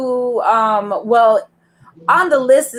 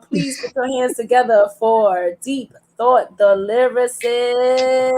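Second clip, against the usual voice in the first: emcee introduction. Real, not acted. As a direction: stretch the last word for applause. Host brings on next poet.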